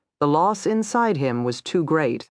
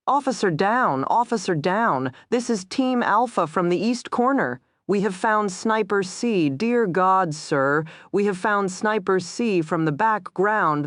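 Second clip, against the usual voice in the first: horrified report; 5 semitones higher than usual. Acted.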